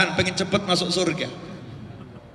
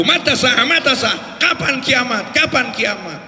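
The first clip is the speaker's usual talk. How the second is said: mildly raised, higher calling; imitated villager's shouting; 3 semitones higher, slower than usual. Villager interrupting the sermon, mildly imitated shout. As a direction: half-shout the repeated question. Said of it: "Dia teriak-teriak".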